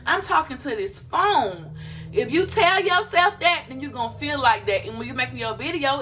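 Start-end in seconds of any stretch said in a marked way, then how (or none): 0.0-1.8 mock self-conscious. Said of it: "if you come on here".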